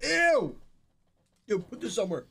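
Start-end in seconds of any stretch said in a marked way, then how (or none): 0.0-0.5 loud high disgusted yelp. Real, not acted. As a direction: recoil with a loud ew. Disgust at taste.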